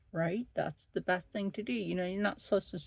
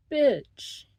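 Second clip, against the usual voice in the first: higher and louder, fed up; exasperated outburst; 7 semitones higher, 7 dB louder than usual. Real, not acted. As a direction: snap at her in disbelief. Venting at the patient.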